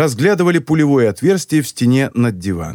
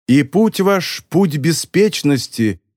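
judgment day angel; 2 semitones higher, slower than usual. Acted. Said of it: "голосом ангела судного дня провозгласила".

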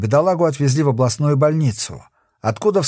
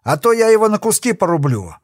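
threatening shout; 7 semitones higher than usual. A narrator's reading. Kokon threatens hostage.

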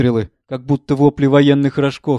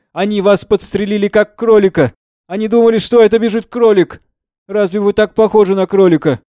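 high, loud, excited mother; 7 semitones higher, 4 dB louder than usual. Acted. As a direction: blurt it out in giddy excitement. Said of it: "Жанна громко и возбуждённо". (громко и возбуждённо)

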